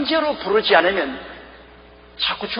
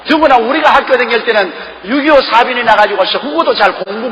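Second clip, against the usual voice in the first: louder, higher indignant sermon peak; full-force preaching; 5 semitones higher, 6 dB louder than usual. Real, not acted. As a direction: preach it out, aggrieved and rising. (억울함을 토로하며 열변하는 설교)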